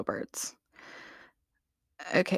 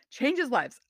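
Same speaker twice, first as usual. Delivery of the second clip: whispered echo; 3 semitones higher than usual. Real, not acted.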